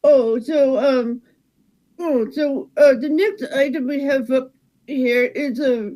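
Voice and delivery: Wisconsin cashier wincing through plucked back hair. Acted. Cashier bagging beans while hair is plucked, mild wince. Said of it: "someone's plucking the hair off your back".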